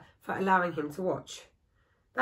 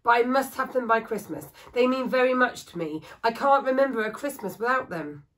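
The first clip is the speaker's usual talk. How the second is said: higher, louder urgent plea; pleading widow; 4 semitones higher, 5 dB louder than usual. Acted. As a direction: beg him to finish by Christmas. Widow pleads for Christmas figures.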